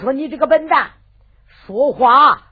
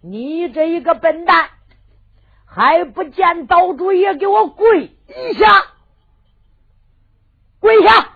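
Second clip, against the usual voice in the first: angry shouted order; 3 semitones higher than usual. Acted. Island master shouting at the captive Wang Neng, furious command. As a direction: roar at him to kneel down. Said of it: "道主就说道".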